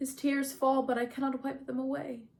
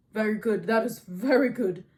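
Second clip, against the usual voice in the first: loud, emphatic king's approval; Agamemnon, approving commander; 7 dB louder than usual. A narrator's reading. Agamemnon pleased by Achilles' answer, loud and approving. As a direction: boom out your approval.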